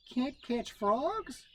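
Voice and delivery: high, very slow disbelief; disbelieving. A narrator's reading. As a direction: drawl it in disbelief. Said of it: "asked Brother Rabbit".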